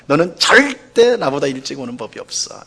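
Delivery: 절대 said plainly, falling at the end; mild reproach. Shown as a demonstration. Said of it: "이렇게 이제 말을 하잖아요".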